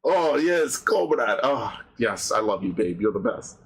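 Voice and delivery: lightly put-on Russian accent; mock Russian accent. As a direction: play a doting lover with a hint of Russian. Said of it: "speak in your Russian accent".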